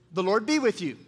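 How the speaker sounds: lightly voiced Boaz, a plain call-out greeting. Shown as a demonstration. Pastor as Boaz greets the congregation, lightly voiced call-out. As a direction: call it out like a boss greeting his workers. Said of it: "Let's practice that. I'm gonna be Boaz".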